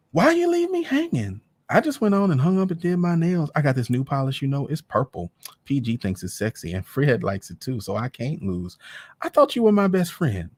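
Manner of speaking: put-on very high girly friend voice; gossipy friend. Peaches calls her best friend, very high and girly. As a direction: squeal it like a gossipy girlfriend.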